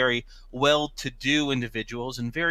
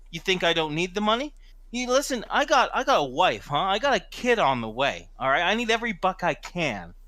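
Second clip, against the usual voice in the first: raised voice of an aggrieved worker; worked-up, acted self-justification; indignant pleading; 3 semitones higher than usual. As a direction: make them listen to your hardship. Acted quarrel pleading hardship.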